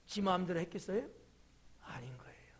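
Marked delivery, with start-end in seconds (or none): 1.8-2.5 hushed whisper, much softer; whispered aside to the congregation. Real, not acted. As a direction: drop to a secret whisper. Dramatic hushed aside in sermon.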